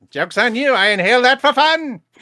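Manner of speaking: shrill, booming, high, loud cartoon villain shriek. During a game session, a player voices a character in a Skeletor voice. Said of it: "That's a that's a great voice".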